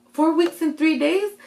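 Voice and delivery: re-enacted startled query; surprised echo. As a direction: repeat it back in disbelief, rising at the end. Echoes doctor's news in disbelief.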